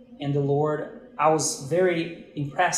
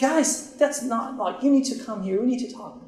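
retold excitement; 8 semitones higher than usual. Pastor urging the Brazilian couple to come, high eager plea. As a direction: stretch out guys, then press on eagerly.

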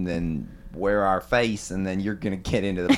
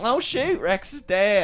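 retold alarm; 10 semitones higher, slower than usual. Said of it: "And then I thought".

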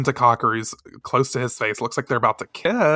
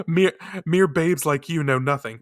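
put-on Essex accent; 2 semitones higher than usual. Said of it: "my own Essex accent".

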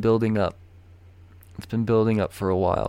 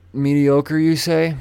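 mock surprised; 5 semitones higher, 5 dB louder, slower than usual. Mock questioning himself.

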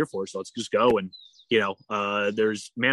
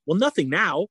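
retold exasperation, pitched up; exasperated objection; 3 semitones higher than usual. Swimmer to kayaker over the safe word, mildly exasperated. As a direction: argue back as if it's absurd.

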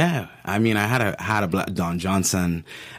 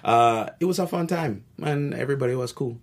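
Caribbean accent. Shown as a demonstration. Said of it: "I'm just gonna do a Caribbean accent".

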